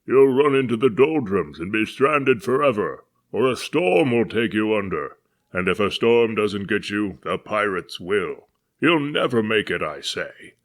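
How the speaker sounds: put-on old man bellows at the departing ship; bellowing old man. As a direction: thunder a doom-laden curse. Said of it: "the booming voice of an old man".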